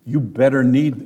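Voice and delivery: usual speaking voice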